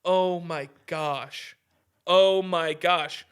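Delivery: lightly mocking, fake shocked sigh; a touch of mock pearl-clutching; mock dismay. Mocking the government over January sixth, mock dismay. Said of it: "And they're like".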